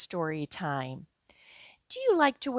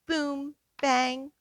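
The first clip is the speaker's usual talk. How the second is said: drum sounds; 4 semitones higher than usual. Acted. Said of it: "Try tapping on this drum".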